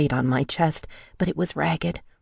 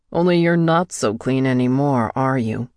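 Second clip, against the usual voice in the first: gloating; 2 semitones lower than usual. A narrator's reading. Captor gloating over the frightened woman, smug. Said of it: "he gloated".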